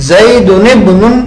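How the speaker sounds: زیدن ابن read zaydunibnun, the alif of ابن silent; slow linked zaydunibnun; hamza dropped. Shown as a demonstration. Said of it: "ہمزۃ الوصل ہے".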